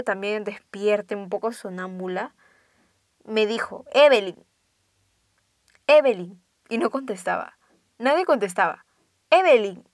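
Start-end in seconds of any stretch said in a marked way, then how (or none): 3.9-4.4 mother calling a name loudly. Retold or imitated. Mother calls her sleeping daughter, calling out. 5.9-6.4 loud call of a name. Retold or imitated. Mother gets no reply from her daughter, calling out. 9.3-9.8 name called loudly; mother's call to a sleeper. Retold or imitated. Mother keeps calling her unanswering daughter, calling out. Mother calls, nobody answers.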